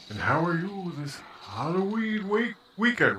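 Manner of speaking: hammed-up creepy welcome; creepy host. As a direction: ask it like a spooky horror host. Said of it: "Why am I talking so creepy?".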